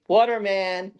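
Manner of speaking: high drawn-out call of a name. Retold or imitated. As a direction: call the name across the yard. Man calling at the gate.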